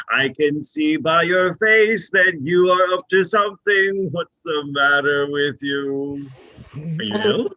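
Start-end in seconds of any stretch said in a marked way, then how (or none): 0.1-4.1 insistent accusation. Acted. Friend presses the accusation harder.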